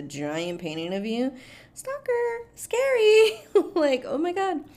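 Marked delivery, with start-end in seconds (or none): 1.7-4.6 mock horror. Horror at the giant painting.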